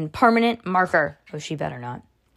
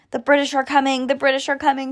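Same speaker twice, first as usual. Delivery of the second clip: higher, urgent call of alarm; raised-pitch lookout's warning; 6 semitones higher, faster than usual. A narrator's reading. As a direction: warn everyone of approaching danger. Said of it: "she warned".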